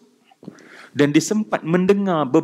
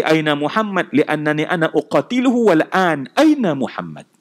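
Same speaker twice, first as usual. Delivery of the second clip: hostile demand. Retold or imitated. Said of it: "Intonasi dia berubah dah".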